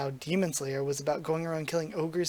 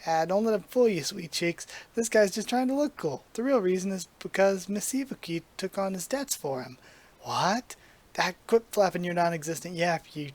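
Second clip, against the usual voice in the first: talking umbrella. Acted. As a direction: play the cocky umbrella like an old movie tough. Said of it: "why is it talking like Mister Tora?".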